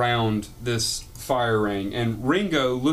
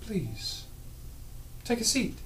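Ringo's voice; 10 semitones higher, 9 dB quieter than usual. Acted. Ringo invites the party.

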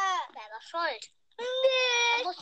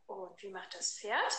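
put-on reading to a toddler; 6 semitones lower, 9 dB quieter than usual. Asking a toddler animal sounds.

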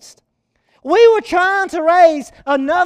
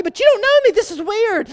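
higher-pitched, mildly baffled objection; retold bewildered protest; 6 semitones higher than usual. Leader answering a preacher who doesn't know him, bewildered. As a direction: imitate someone puzzled at being singled out.

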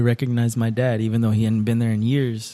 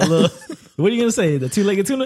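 laughing; 12 semitones higher, 3 dB louder, faster than usual. Real, not acted. Teasing friend mid-giggle.

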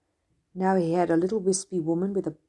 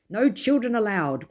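cried out; 5 semitones higher, 6 dB louder than usual. Acted. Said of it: "cried Mister Murgatroyd".

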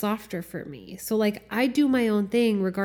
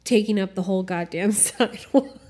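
smug self-praise. Retold or imitated. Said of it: "a superior satisfaction to be like".

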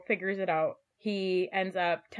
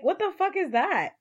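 mock outraged disbelief; 10 semitones higher, 3 dB louder than usual. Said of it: "And I was like".

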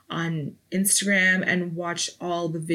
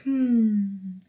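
mellow hum. Acted. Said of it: "And you mellow".

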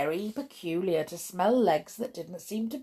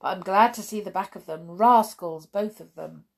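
burly farmer; 6 dB louder than usual. Acted. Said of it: "said a burly farmer".

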